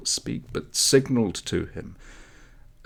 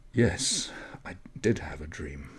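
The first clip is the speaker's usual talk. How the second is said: put-on hushed whisper of a boy just woken; a whispered admission to the girl; 4 semitones lower than usual. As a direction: breathe it out, still half in the dream. Dreamy reply about his dream.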